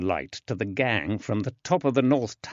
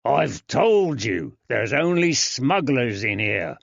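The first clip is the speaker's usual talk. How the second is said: gruff jailer; 3 semitones higher, 4 dB louder than usual. Acted. Jailer impatient.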